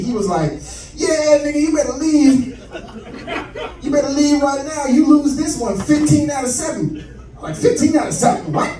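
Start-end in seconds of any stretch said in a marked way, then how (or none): 0.9-7.0 put-on drunk dad voice. Drunk father on the phone greeting his son home, raised and loose. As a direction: sound like dad after a few drinks. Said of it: "turned into Richard Pryor".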